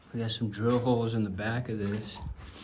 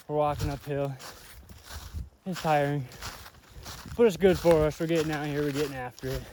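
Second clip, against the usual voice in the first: winded from the climb; breathy between phrases; shallow breathing; 2 semitones higher than usual. Real, not acted. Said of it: "I'm out of breath again".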